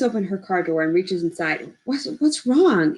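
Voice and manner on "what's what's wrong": slow, anxious and higher. Acted. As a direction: ask it slowly, fear creeping up. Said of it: "Anxious, his voice pitches high".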